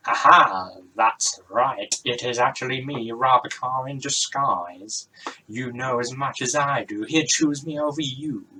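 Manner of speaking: loud, gloating villain's unmasking; triumphant reveal. Acted. Rob Carr reveals his disguise to Rosie, loud and triumphant. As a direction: gloat loudly, savouring the reveal.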